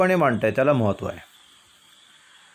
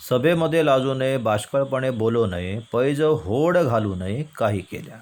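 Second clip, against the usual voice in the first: verse recitation. Shown as a demonstration. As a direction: recite the verses for a class to follow. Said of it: "ही कविता मी कशी वाचतोय".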